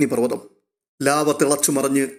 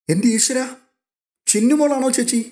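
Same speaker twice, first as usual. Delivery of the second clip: astonished; 10 semitones higher than usual. A narrator's reading. Rohit realising the child is Chinnumol, astonished. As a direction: burst out in amazement, voice leaping up.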